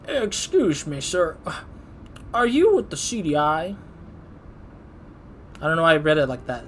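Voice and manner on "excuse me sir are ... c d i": put-on country accent. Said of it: "read him in a country accent, old man".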